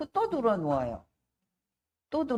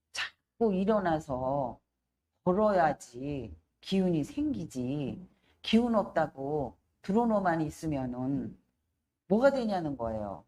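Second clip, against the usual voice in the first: tearful urging; 4 semitones lower, slower than usual. Retold or imitated. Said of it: "근데 울면서 그래".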